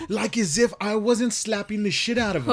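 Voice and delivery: high, loud amused disbelief; incredulous. Real, not acted. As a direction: exclaim it at the absurdity. Mocks dad's oblivious question.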